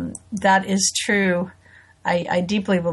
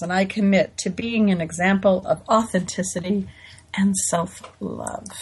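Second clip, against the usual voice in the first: creed reading. Acted. Reads the creed aloud.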